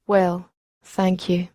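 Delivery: talking through a mouthful; words round a mouthful of candy; mouth full. Retold or imitated. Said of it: "he says with a mouthful".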